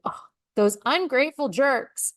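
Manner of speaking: mock indignation. Leaders first hearing staff feedback, mock indignant. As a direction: lightly act out an offended boss.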